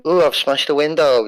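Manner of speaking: playful parody of a wacky character. Retold or imitated. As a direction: ham up a silly over-the-top line. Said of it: "Don't give me the wacky".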